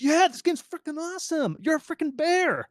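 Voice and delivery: brash bragging about a bear game; confident dev. Shown as a demonstration. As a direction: sell it like you own the room. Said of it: "Just be confident".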